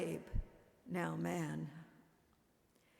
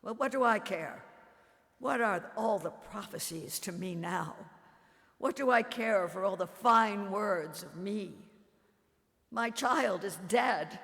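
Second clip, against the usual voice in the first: louder, fast bitter defiance; mother lashing out at John over her dead son; bitter outburst; 5 dB louder than usual. Acted. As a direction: hurl the questions, grief turned to anger. Grieving mother rebuking John.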